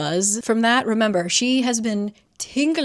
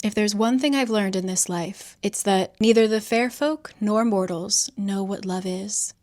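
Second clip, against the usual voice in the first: melancholy. Retold or imitated. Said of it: "Mark gets kind of melancholy".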